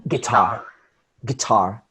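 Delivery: "guitar" with light "gui" and strong "TAR"; "gui-TAR", stressed on the last syllable; second-syllable stress. Shown as a demonstration. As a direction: hit the end of "guitar". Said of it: "What I'm talking about with stress".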